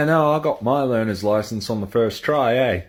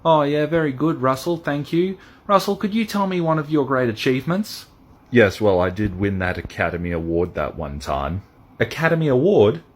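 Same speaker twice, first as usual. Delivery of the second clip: higher, bright-eyed reporter voice; eager interviewer; 3 semitones higher than usual. Acted. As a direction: gush at the star like a keen interviewer. Interviewer voice questioning the actor.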